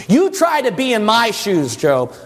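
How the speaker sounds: a hint of an indignant God; God challenging Job. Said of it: "God told Job everything of his ways".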